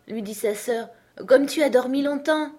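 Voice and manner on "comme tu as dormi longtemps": higher-pitched sister's voice; mild fond surprise, pitched up; fond amazement. A narrator's reading. Sister greets Alice waking from a long sleep, fondly amazed.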